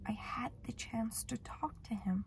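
slow model sentence. Shown as a demonstration. Teacher models English example.

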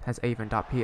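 ordinary delivery

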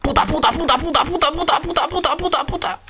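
high frantic repeated swearing; panicked cursing. Real, not acted.

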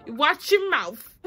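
high, loud, drawn-out mock telling-off; angry warning. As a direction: stretch the warning out, playing up the anger. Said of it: "I got angry".

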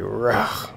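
rough throat grunt. Shown as a demonstration. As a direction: growl it like a sore throat. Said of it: "My throat is just like".

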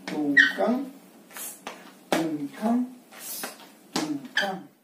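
tum, can with can stressed and rising. Shown as a demonstration. Teacher counting the zapateo rhythm for the student, can stressed. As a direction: land the weight on "can" with a rising lift. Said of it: "Entonces sería de esta manera".

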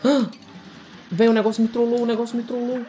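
can't believe the game just did that; outraged disbelief. Real, not acted. Gamer yelping after a skull trap hits him, outraged disbelief. Skull exploded, lost health.

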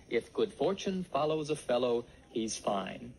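"fortune follows a fellow" with TH for each f; TH for every F. Shown as a demonstration. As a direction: model "If" and "fine" with TH replacing f. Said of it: "E T H instead of F".

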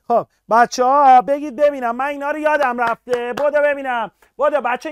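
excited teacher demanding quick answers; rallying. Real, not acted. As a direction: pump up the students.

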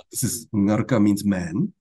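slow, careful breakdown; spelling it out slowly. Shown as a demonstration. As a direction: take it slowly for the learners. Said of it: "I have to go slowly".

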